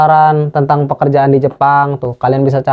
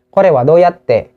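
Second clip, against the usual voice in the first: each syllable slowly drawn out for learners; slow demo; 3 semitones higher, much slower than usual. Shown as a demonstration. Teacher to viewers, saying the phrase very slowly. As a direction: Kore wa doyatte said very slowly, syllable by syllable. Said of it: "teacher demonstrating phrase slowly".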